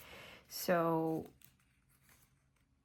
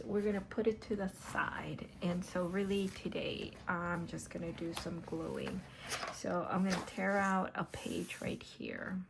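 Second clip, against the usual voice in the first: whispering. Acted. Whispered craft chat.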